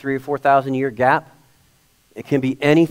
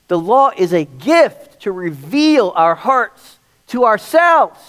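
forceful preaching; 4 semitones higher, 3 dB louder than usual. Real, not acted.

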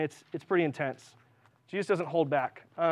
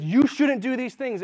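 mock angry scold; 6 semitones higher, 7 dB louder, slower than usual. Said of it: "Someone who says".

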